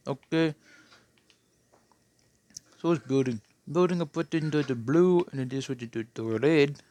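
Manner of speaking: put-on light Indian accent with rising okay; playful Indian accent tour guide. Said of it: "I like practicing the Indian accent".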